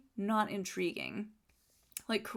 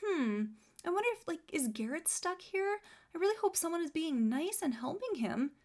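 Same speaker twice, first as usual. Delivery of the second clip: higher, mock-innocent voice of a self-absorbed woman; mocking Alyssa; 5 semitones higher than usual. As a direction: parody her fake concern. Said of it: "she's all".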